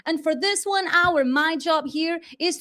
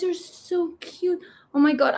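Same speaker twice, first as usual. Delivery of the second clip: normal talking voice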